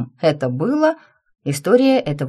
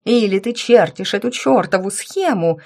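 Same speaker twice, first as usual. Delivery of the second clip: higher, louder furious demand; 4 semitones higher, 3 dB louder than usual. Acted. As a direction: press her hard in fury. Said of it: "в ярости наседала на меня брюнетка".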